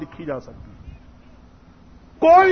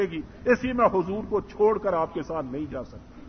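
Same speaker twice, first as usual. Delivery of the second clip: calm reply. Retold or imitated. Son calmly tells his father he stays, gentle unhurried voice. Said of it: "بڑے آرام سے کہا".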